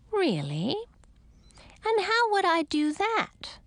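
sweetly inquiring, rising high; friendly. A narrator's reading. Witch drawing out the talking frogs, friendly. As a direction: lilt it with feigned interest. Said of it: "in a friendly voice".

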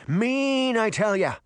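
high, emphatic cranky fish; insistent fish. Acted. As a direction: hammer it home as a fish. Fish insists mermaid is mean.

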